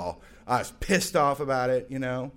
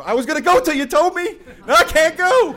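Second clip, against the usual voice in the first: very high, loud mock-indignant shout; sarcastic outburst; 12 dB louder than usual. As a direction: throw it back at them. Snapping at Jesus freaks at door.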